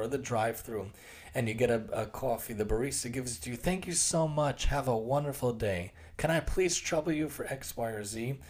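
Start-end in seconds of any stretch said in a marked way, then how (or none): 3.6-5.9 purposely polite thanks. Shown as a demonstration. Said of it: "I purposely say it like that". 6.2-8.4 deliberately polite request. Shown as a demonstration. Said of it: "And I purposely say it like that".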